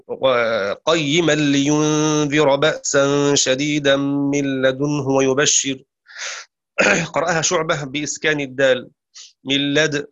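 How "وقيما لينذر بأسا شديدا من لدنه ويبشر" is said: slow measured chanted verse; Quran recitation. Acted. Teacher recites the verse to students in measured chant.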